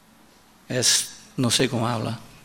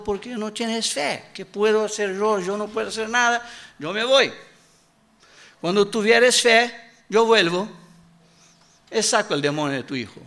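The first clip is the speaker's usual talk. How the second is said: higher, dismissive voice of a faithless healer; scornful healer refusing; 6 semitones higher than usual. Acted. Healer turning away the boy's father, higher and dismissive. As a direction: brush the father off from on high.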